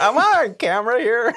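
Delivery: high, loud disbelief; incredulous. Retold or imitated. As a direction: ask it like you're being pranked. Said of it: "I'm like".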